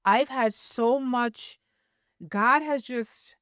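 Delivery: slow, near tears, voice on the edge; fighting back tears while telling it; holding back tears. Real, not acted. Telling her story of losing the job, slow and near tears. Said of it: "I'm trying not to cry".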